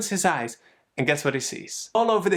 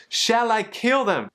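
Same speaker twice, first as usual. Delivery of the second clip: higher and slower, pressing the question; more eager king; 5 semitones higher than usual. Retold or imitated. King repeating his question to Elisha, higher and slower. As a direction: lean in and ask again, keen for victory. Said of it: "he was excited".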